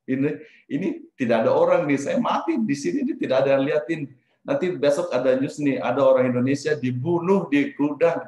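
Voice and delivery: panicked worry. Retold or imitated. Narrator recalls fearing he will die unseen, panicked worry. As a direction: imitate your own alarmed thoughts. Panicked inner thought, imagining own death.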